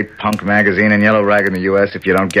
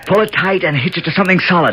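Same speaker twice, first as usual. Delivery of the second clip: much higher, projected call; 12 semitones higher than usual. Acted. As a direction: project it up through the skylight. Calling instructions upward.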